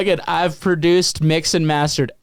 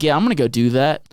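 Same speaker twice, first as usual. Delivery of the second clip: Louisiana accent. Shown as a demonstration. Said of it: "picked up a little bit of Louisiana".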